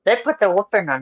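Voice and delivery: lightly voiced old man. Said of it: "let me go into my old man voice".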